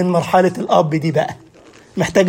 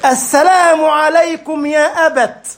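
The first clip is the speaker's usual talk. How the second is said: high, slow, hammed-up "يا أبت" stretched out; teasing an overly formal son; mock formal classical greeting; 7 semitones higher, much slower than usual. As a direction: drawl it like a pompous pious student. Student greets father, mock classical.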